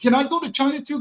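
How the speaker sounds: high, pleading mock white guy; whiny white guy. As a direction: ask it like a hopeful outsider begging to join. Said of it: "you as a white guy say".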